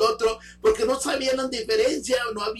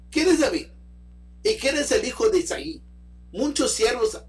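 mildly harsh, dismissive retort, raised at the start; respuesta dura; 3 semitones higher than usual. Retold or imitated. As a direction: quote a rude, scornful refusal with some force. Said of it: "respondió de una manera muy dura". (réplica dura y despectiva, algo contenida)

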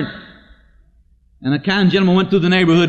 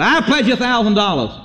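proclaimed pledge; 5 semitones higher than usual. Retold or imitated. Acted pledge at fundraising meeting.

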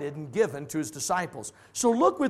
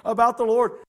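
much higher, feigned innocence; mock innocent excuse; 7 semitones higher than usual. Teacher pretending innocence to a visitor, pitched up. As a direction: play it innocent for the principal. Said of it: "I'd say".

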